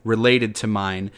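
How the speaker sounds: hammed-up Oscar winner thanking everyone; mock acceptance speech. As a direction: play the teary winner being played off. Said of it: "they're playing me off".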